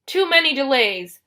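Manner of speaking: booming, impatient Cyclops; monster bellow. A narrator's reading. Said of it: "the monster bellowed".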